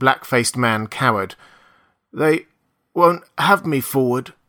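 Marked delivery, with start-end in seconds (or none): 2.1-4.2 slow, hoarse, strange rasping drawl. Reading a cowering man's reply, in a slow, queer, hoarse voice. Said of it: "he spoke slowly with a queer, hoarse quality in his voice".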